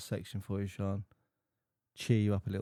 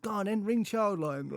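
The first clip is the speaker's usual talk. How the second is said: teasing dare; 8 semitones higher, 4 dB louder than usual. Retold or imitated. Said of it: "I said".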